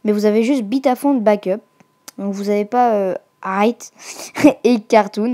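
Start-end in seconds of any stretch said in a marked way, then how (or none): 3.4-5.3 clumsy French-accented English; English font names in a poor French accent, with a laugh; pitiful English accent. Real, not acted. YouTuber reading English font names to viewers, pitiful English accent. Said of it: "Mon accent était pitoyable".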